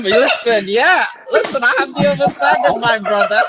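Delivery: put-on deep voice, laughing. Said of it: "why you so deep".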